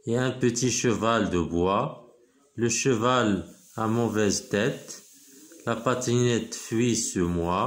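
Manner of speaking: slow, measured poem reading for pupils; poem recitation. Acted. Teacher reads the poem to pupils, slow measured recitation. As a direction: recite line by line, slowly, with pauses.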